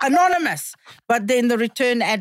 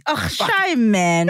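South African accent; 2 semitones lower, much slower than usual. Shown as a demonstration. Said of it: "you can just literally say that".

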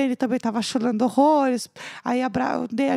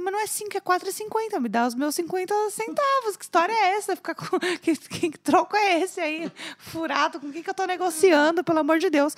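higher, mock outraged haggling; indignant; 5 semitones higher than usual. Narrator arguing with drunk friend over change, mock indignant. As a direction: protest the missing fifty cents.

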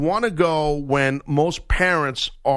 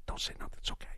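soft hushed calming voice; the wife calming her husband, softly; quiet imitation; 18 dB quieter, much faster than usual. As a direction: shush him gently, barely audible. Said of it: "she does the quiet".

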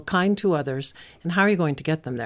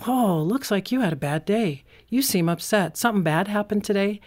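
empathetic parent; 4 semitones higher than usual. Shown as a demonstration. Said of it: "How should they handle that?".

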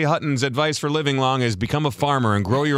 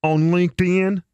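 higher, baffled question; puzzled Luke; 4 semitones higher than usual. Retold or imitated. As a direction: ask it like an odd non sequitur. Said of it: "he goes".

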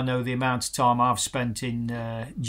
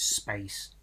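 whispered quote; 5 semitones lower, 9 dB quieter than usual. Retold or imitated. Old pro whispering his wisdom to a young player, hushed. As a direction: whisper the one word, unvoiced. Quoting Davey's key advice.

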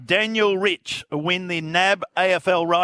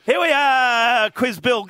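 hammed-up announcer; 5 semitones higher, slower than usual. Host kicking off quiz segment.

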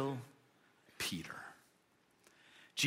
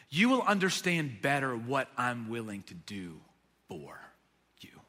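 dropping lower and softer to near whisper; tender hush; 8 semitones lower, 4 dB quieter than usual. Retold or imitated. Jesus telling Peter gently of his sacrifice. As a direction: let it fall away to a whisper on "for you".

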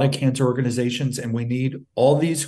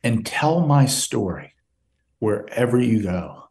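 holding back tears through the mother's words; choked up. Real, not acted. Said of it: "I'm getting a little choked up".

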